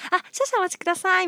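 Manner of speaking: calm composed polite clerk; cool and unbothered, politely; customer service voice. Retold or imitated. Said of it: "すごい涼しい顔して".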